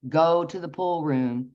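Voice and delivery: measured, slow inner voice; voice in the head. Retold or imitated. Voice in her head as she goes to bed, slow and even. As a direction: deliver it slowly, as a prompting heard inwardly. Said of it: "I hear in my head".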